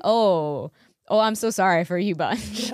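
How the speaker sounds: mock pity. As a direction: pour on the pretend sorrow.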